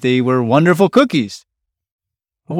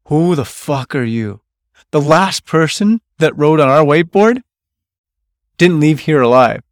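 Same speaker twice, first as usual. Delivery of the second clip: hostile challenge; 3 semitones higher, 4 dB louder than usual. Retold or imitated. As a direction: confront the stranger who wrote on her whiteboard. Stern woman confronts newcomer.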